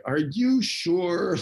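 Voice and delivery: slow, high-pitched retold doubt; mock-skeptical check; doubtful questioning.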